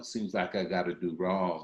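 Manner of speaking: ordinary talk, nothing marked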